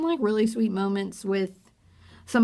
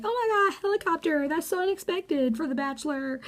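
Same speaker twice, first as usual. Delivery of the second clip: higher, sarcastic gushing; mock gushing girls; 7 semitones higher than usual. Imitating the other girls mocking the helicopter date. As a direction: gush with fake amazement. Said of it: "all the other girls are like".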